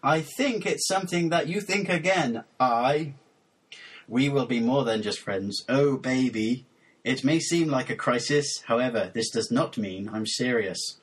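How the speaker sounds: measured, over-deliberate poem reading; deadpan lyric recitation. Acted. Host reading mangled lyrics for co-host to guess, measured mock-serious recitation. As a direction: recite each phrase as a separate solemn statement. Reads second translated song.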